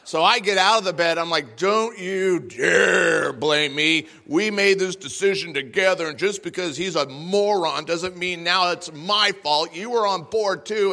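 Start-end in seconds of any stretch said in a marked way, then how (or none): 1.6-10.9 indignant retort. Acted. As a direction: refuse the blame. Husband counterattacks in the argument.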